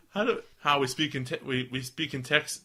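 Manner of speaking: tentative Texan accent; Southern accent attempt. Shown as a demonstration. Podcaster tries out Southern before reading, tentative Texan accent. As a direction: feel your way into a Texan accent. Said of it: "How does Southern go?".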